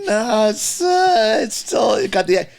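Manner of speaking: high, loud, pushy correction; insistent arguing. Retold or imitated. Producer retells arguing with singer, high and insistent. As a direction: insist he still has the accent. Retold studio argument with singer.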